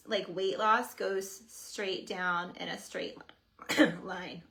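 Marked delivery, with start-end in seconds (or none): 3.8-4.4 coughing mid-word, choking. Real, not acted. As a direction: choke on the word line. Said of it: "Oh, I'm choking".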